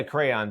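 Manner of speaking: "crayon" as CRAY-on; two syllables in "crayon", ending in "on". Shown as a demonstration. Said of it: "us it's crayon".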